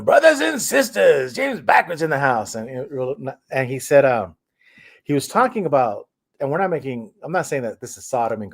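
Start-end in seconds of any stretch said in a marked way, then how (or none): 0.0-2.5 James Backwards catchphrase. Retold or imitated. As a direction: announce yourself like a YouTube host greeting fans. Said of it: "he would always say".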